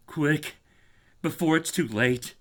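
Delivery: hopeless but anxious for him. Acted. Warren pleading softly with Carter, resigned. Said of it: "a softer quality, as of hopeless resignation".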